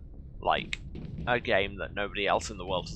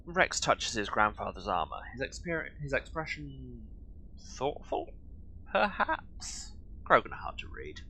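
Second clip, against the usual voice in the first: mock story narration; 3 semitones higher than usual. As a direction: narrate in halting fragments with pauses. Voices narration of a character's reactions.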